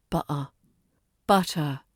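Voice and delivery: "butter" with a crisp T and no final R; clear T. Shown as a demonstration. Teacher repeats RP "butter" with a clear T. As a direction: say "butter" with a clean T. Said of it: "So it's butter".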